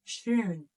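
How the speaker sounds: Schön with sh and long rounded ö; German Schön. Shown as a demonstration. Teacher answering her own question with Schön, clear model word. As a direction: model Schön cleanly for learners. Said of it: "do you remember example for this letter".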